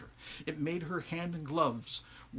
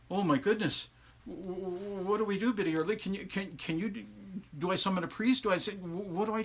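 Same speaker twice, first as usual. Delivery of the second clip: stammering, higher, frantic questions; young man stammering in a fluster to Biddy; flustered panic; 4 semitones higher than usual. Acted. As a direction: fumble the words in a panic. Young man panics over spell.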